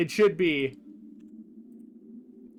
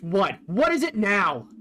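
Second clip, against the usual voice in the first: mildly exasperated, a bit louder; lightly voiced impatience at being interrupted; impatient; 2 semitones higher, 3 dB louder than usual. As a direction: snap it a little, fed up. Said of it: "very much more impatient".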